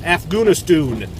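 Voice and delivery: Afghanistan as "Afgunistoon"; rounded local vowels; foreign pronunciation. Shown as a demonstration. Vlogger mocks the local pronunciation.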